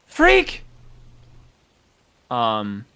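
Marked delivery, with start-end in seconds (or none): 0.1-0.6 high, loud call into the fog. Acted. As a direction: shout the name across the woods. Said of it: "Arena's kinda calling out".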